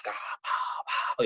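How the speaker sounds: whispered, breathy imitation of a turkey hammering; imitating the gobbler's gobble to his hunting buddy, under his breath; mock turkey gobble. A muted bah bah gobble sound. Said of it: "he just starts hammering".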